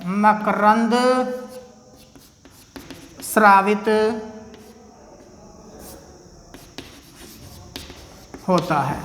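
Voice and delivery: each word held apart by long pauses; word-by-word dictation. Shown as a demonstration. Teacher giving students time to write, word-by-word dictation.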